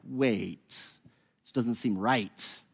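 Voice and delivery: a reader feeling the discomfort, softly and very slowly; uneasy doubt. Retold or imitated. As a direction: let it dawn on you slowly and quietly.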